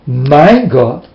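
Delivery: mean "My God" for real, calmly; sincere. Retold or imitated. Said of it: "they never mean".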